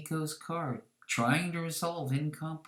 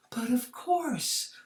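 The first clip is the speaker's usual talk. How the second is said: whisper; 11 semitones higher, slower than usual. Acted. Hostess greeting guest, whispered.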